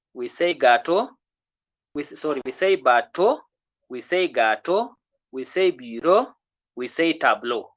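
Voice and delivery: each word slowed and set apart for the learners; slow model reading. Shown as a demonstration. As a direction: read the list slowly like a teacher drilling. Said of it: "So we say".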